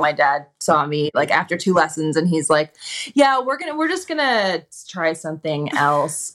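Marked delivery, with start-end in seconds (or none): 3.1-6.3 lightly voiced dad, starting high, slowing down; imitated tactful dad. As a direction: let her down easy, drawing out the end. Dad gently ending her skating lessons.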